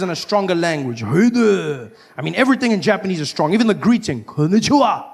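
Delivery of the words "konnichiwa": powerful. Shown as a demonstration.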